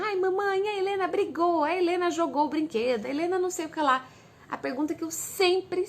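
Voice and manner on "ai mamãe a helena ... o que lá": high-pitched imitation of kids telling on a sister; whiny little tattletale voice, pitched up; tattling daughters. Daughters running to mom to complain about their sister, tattling. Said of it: "Às vezes elas chegam e falam".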